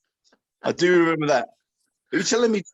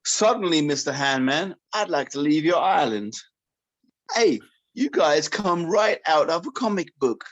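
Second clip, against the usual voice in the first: put-on North Korean accent. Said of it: "in a North Korean accent".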